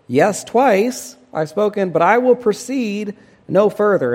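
quoting Job backing down, voice lifted high; humbled Job. Retold or imitated. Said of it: "And he says".

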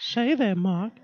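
put-on high, slow creepy old neighbor; creepy old man voice. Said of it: "my Family Guy impersonations".

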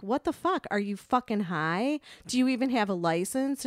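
mildly heated, indignant questioning; retold going off. Retelling going off on the reckless driver, indignant. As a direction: re-enact telling her off without shouting. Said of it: "started going off on her".

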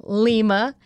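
Lima Tango Charlie, slow and clipped apart; staccato. Shown as a demonstration. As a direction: spell it like a police radio call. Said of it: "for our crime junkies".

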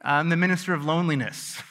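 mock official. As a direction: play a proud minister, lightly. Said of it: "What do you do?".

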